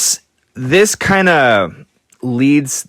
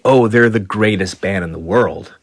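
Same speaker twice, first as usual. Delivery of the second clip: gushing fan; 3 semitones lower than usual. Retold or imitated. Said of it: "they say".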